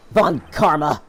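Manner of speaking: slow, emphatic accusation; accusing. Acted. Witness naming Von Karma as the screamer, accusing. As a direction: hit "you" hard as you point the blame.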